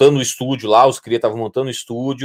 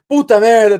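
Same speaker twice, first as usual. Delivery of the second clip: mock exasperated; 9 semitones higher, 5 dB louder than usual. Retold exclamation.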